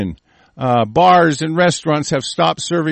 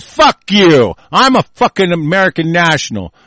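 louder, defiant outburst; indignant anger; 4 dB louder than usual. Real, not acted. Host rejecting being counted among Americans, indignant. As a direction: hit back hard at the claim. Host rebutting the news report.

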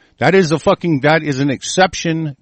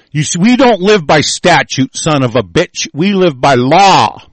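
swearing tirade; 3 semitones higher than usual. Real, not acted. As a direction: rage against statute, slowing down. Swearing rant against legislation.

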